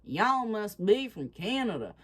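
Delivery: imitating a Texan drawl, y'all drawn out; lightly put-on Texas drawl. Retelling the two guys mocking her in a Texas drawl. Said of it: "with a Texas drawl".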